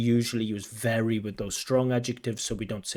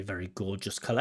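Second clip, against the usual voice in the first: quoting the candidate; 2 semitones lower, 5 dB quieter, faster than usual. Retold or imitated. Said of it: "I don't know what that means".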